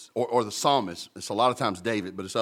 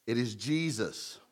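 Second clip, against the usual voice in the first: "It is Jesus" repeated softer, falling; soft echo; 2 semitones lower, 7 dB quieter than usual. Shown as a demonstration. Preacher repeating the answer, softer and settled. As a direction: echo it softly.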